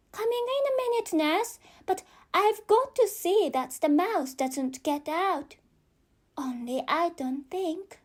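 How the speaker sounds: put-on quick, high girlish reply; Alice's voice. Alice hurries an answer to her nurse, fast and high. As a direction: rattle it off fast like a hurried child.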